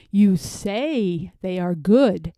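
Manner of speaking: slow, mild sneer. Acted. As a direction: drag it out, doubting him. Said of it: "said the bear with a sneer".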